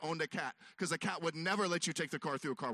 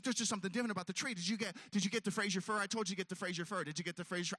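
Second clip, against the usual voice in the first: suspicious wife; faster than usual. Retold or imitated. Wife questioning him about the tree, quick. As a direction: interrogate him like a detective. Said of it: "She's like".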